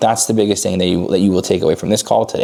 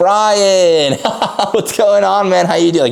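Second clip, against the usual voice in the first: exaggerated, very high-pitched, over-the-top energetic hype; 11 semitones higher than usual. A trainer demonstrates greeting someone on a cold call, with exaggerated high energy. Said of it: "I would rather you exaggerate the energy and be like".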